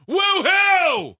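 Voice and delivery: match his whoop; answering woohoo shout; yelled back woohoo. Retold or imitated. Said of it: "I yelled back just as loud".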